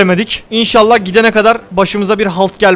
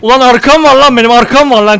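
angry threat; 4 semitones higher, 5 dB louder than usual. Real, not acted. Threatening the beast, boasting.

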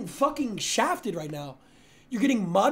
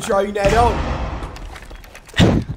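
bad Australian accent; 2 semitones higher, 8 dB louder, much slower than usual. Teasing his teammate, he hams up a loud Australian accent. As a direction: ham up an Aussie voice as Mozzie. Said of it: "I'm gonna do an Australian accent".

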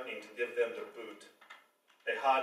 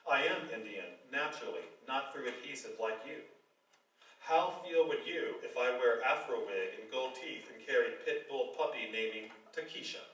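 lightly voiced Indian accent; a hint of a Bollywood accent. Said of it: "in his best Bollywood accent".

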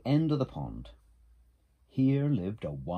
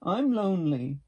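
high, loud call back; plaintive answer from across the pond; lonely echo voice; 9 semitones higher, 7 dB louder than usual. A narrator's reading. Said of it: "said the voice from across the pond".

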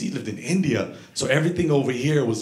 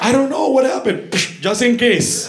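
raised scolding; 8 semitones higher, 4 dB louder than usual. Acted. Acts grandpa slapping just in case.

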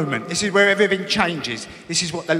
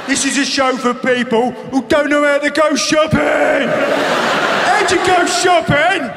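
incredulous rant; 6 semitones higher than usual. Real, not acted. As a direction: rant at the absurd show. Ranting about TV show.

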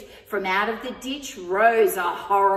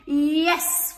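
bright higher cry; eager yes; 6 semitones higher, 6 dB louder than usual. A narrator's reading. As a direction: welcome the dog aboard gladly. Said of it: "cried the witch".

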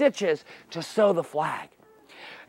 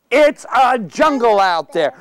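magic words; slower than usual. Shown as a demonstration. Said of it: "what our magic words are".

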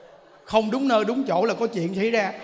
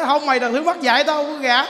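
louder mock scolding refusal; a touch of an angry old father refusing; angry father-in-law; 3 semitones higher, 5 dB louder than usual. Ông già giận từ chối. (giọng ông già giận dữ, to hơn)

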